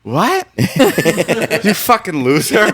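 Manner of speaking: high mocking laugh; laughing insult. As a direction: tease through laughter. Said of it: "Natalie looks at me and goes".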